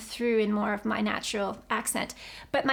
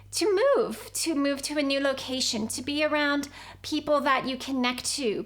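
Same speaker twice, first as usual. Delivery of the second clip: channeled spirit voice. Shown as a demonstration. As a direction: speak as the guiding team, gently encouraging. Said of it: "I'm going to do a demonstration".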